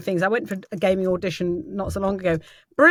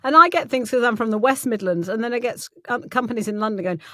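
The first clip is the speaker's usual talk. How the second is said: ordinary delivery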